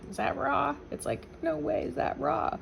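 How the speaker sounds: high, incredulous "no way"; mock disbelief. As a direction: play the stunned guest who can't believe it. Imagined amazed reaction to dessert.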